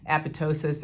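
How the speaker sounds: apoptosis said the first of two ways; variant pronunciation. Shown as a demonstration. Lecturer noting how people differ, apoptosis in one variant pronunciation. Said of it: "depending on who you listen to".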